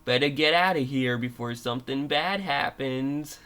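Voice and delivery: lightly attempted Australian accent; a hint of playful Australian; Fango. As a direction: voice the character with an amateur Australian accent. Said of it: "And this is what Fango says".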